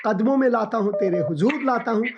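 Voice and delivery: earnest spoken prayer, rising fervour. Acted. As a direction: pray over her with conviction. Pastor prays for caller.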